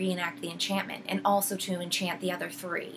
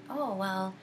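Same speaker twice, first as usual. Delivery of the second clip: imitating a calm witch, pitched higher; lightly acted polite doubt, lifting in pitch; nice, calm questioning; 4 semitones higher than usual. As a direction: question sweetly, as if merely puzzled. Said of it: "all very nice, but keeps questioning about it".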